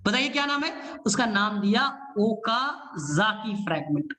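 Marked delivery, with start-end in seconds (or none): 2.2-4.1 ओकाजाकी फ्रैगमेंट said slowly once; name ओकाजाकी फ्रैगमेंट at a slow teaching pace; clear naming. Shown as a demonstration. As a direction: introduce the term ओकाजाकी फ्रैगमेंट slowly and evenly. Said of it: "ओकाजाकी फ्रैगमेंट ना".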